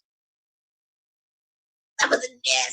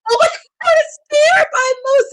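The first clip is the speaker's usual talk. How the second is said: wrestling commentator; 12 semitones higher, 6 dB louder than usual. Real, not acted. Live reaction to a big move.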